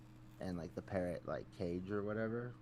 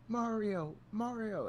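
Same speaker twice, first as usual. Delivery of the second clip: parrot scream; slower than usual. Retold or imitated. Parrot screams before dying.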